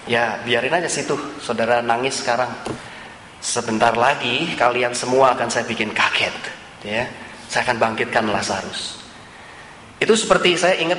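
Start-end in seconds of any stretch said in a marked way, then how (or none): 0.1-9.0 lower, smiling, sly knowing teasing; a hinted-at secret said with a grin; smug smiling tease. Pretend. Imagined Jesus teasing mourners, lower smug smile. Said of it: "tersenyum-senyum".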